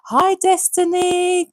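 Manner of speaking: beam the name out; delighted hello. Real, not acted. Welcoming viewer Destiny to her live, delighted.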